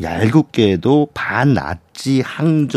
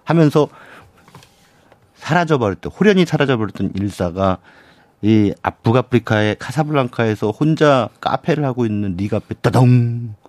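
silent film narrator. Acted. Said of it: "약간 변사 톤이신데 지금".

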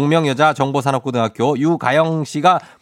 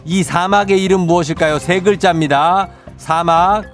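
quiz host. Acted. Radio quiz question read.

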